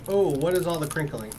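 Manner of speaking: usual speaking voice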